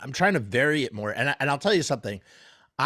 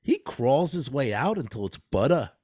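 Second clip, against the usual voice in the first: Christopher Walken impression. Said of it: "Try to do Christopher Walken".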